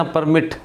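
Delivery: परमिट with weight on MIT, crisp final t; clear final T. Shown as a demonstration. Teacher giving a stressed-ending example, परमिट as per-MIT. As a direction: sound out the last t of परमिट. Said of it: "टी clear है".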